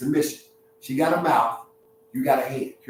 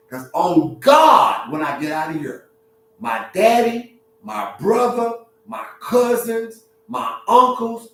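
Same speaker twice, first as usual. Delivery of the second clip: acted threat; 5 semitones higher, 4 dB louder than usual. Acting out a threat to leave.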